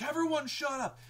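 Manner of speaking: high sharp yell for silence; shouted command. Retold or imitated. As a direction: snap it over the dying crowd. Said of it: "he's like, he's like".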